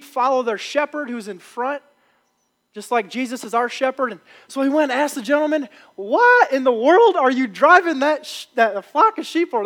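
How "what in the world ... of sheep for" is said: mildly louder, pitched-up mock disbelief; retold incredulous question. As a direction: ask it like a baffled onlooker retelling a scene. Country boy challenges the butcher.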